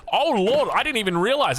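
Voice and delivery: giddy excitement. Real, not acted. Caster thrilled by a timing push, giddy excitement. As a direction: burst out with delight. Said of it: "all giddy inside".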